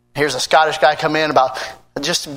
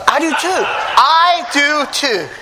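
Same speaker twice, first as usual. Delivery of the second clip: laughing; 11 semitones higher, slower than usual. Real, not acted. Laughs after the pancake run.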